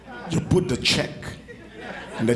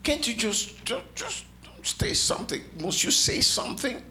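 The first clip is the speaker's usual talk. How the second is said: exasperated plea; 9 semitones higher, 4 dB quieter than usual. Acted.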